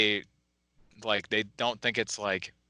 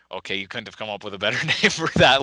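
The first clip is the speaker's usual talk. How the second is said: complaint breaking into a laugh; laughing mock exasperation; amused complaint; 5 dB louder than usual. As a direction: grumble about it while starting to laugh. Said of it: "and I was like".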